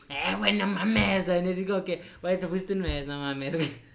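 lightly imitated northern Mexican accent; a hint of a Monterrey norteño accent. Mocking a friend back from Monterrey, light norteño accent. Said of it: "bien norteño".

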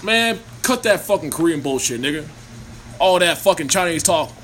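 lightly voiced black man's accent; a hint of a street-talking black guy; black guy impression. Mocking the earlier bit, lightly put-on black guy voice. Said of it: "Should I do my black guy impression?".

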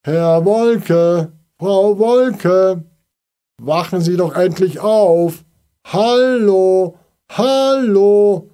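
loud high calls from outside the window; calling out. A narrator's reading. Neighbour calling up to the sleeping Wolkes, loud and high. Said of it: "hörten sie es von draußen rufen".

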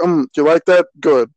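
mock half-interested bedroom talk; unenthusiastic. Teasing a co-host as an unenthusiastic guy in sex. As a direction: imitate a lover with no enthusiasm. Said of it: "a very unenthusiastic guy in sex".

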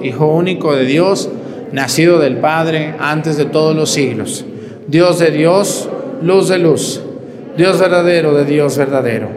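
measured liturgical recitation; creed recitation. Acted. Priest leading the congregation in the creed, liturgical recitation.

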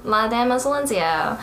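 lightly put-on California Valley Girl accent on Spanish; playful touch of Valley Girl in the Spanish. Host hamming up a Spanish nickname, mock Valley Girl accent. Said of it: "Valley Girl accent ever".

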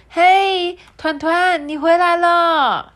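high, loud, drawn-out happy welcome; 开心的妈妈打招呼; cheerful mother. Acted. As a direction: greet your little one at the door. Mother greets returning child.

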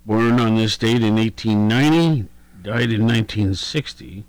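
rough, gravelly speaking voice. Real, not acted. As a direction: talk through a gravelly throat. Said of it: "Excuse my gravelly voice here".

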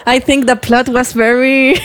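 slow, vague English of a student who didn't read; lightly voiced unprepared debater; clueless debater. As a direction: stall through the sentence, slowly.

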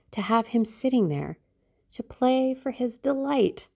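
lightly voiced dreamy girl in love; a hint of rapturous girlish delight; lovestruck young Sybil. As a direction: enthuse about the beloved, lingering on key words. Narrator voices Sybil enthusing.

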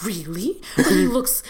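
retold grandma's disbelief, rising high and loud; a laughing imitation of grandma's astonishment; amazed grandma.

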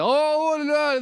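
high, loud mock gospel cry; church shout. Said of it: "whatever black people do in church".

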